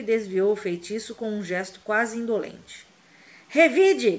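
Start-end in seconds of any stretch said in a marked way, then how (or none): 3.5-4.2 high, loud angry demand; furious shout. A narrator's reading. Harry screams at Snape to fight back, furious. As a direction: scream it in his face. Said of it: "gritou Harry".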